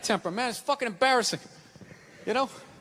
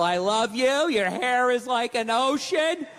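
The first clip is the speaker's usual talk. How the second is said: tender-lover parody; much slower than usual. Acted. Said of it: "Always making love to you, missionary style".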